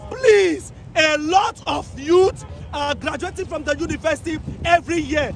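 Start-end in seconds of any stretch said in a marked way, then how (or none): 0.1-0.7 desperate plea. Real, not acted. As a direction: drag it out, begging at full voice. Pleading protest to the president.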